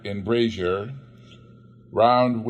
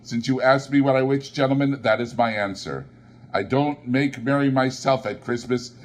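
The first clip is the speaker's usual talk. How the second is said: curt Scrooge; 3 semitones higher than usual. Acted. Old miser brushing off the charity gentlemen, curtly. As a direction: snap it out like a stingy old man.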